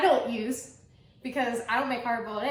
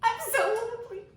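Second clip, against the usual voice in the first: mock lonely wail; 10 semitones higher, faster than usual. Jokingly echoing guest's tease.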